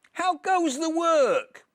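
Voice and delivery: high, slow, loud bossy call; farmer calling. Acted. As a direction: bellow it down like a lazy farmer. Farmer calls again.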